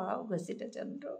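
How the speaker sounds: mother calling, rising. Retold or imitated. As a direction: call the muddy child home affectionately.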